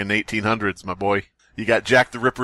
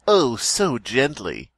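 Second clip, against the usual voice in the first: slow dramatic reading; much slower than usual. Acted. Reading Poe slowly.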